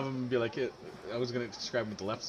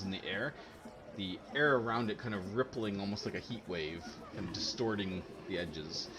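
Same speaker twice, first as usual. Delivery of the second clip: game master narration. A narrator's reading. GM describes portal opening.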